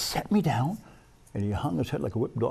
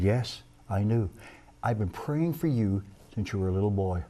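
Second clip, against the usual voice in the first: tender reply; 5 semitones lower than usual. Retold or imitated. Teacher's tender answer.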